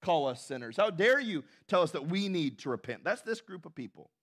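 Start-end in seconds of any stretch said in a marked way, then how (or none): 0.0-3.0 mock indignation. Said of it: "They say".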